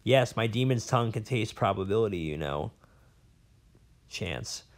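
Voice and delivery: a lightly voiced old scholar, rambling and bitter; a hint of a cranky old professor holding forth; jailed old professor. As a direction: play the disgraced academic nursing his grudges. Professor on his demon.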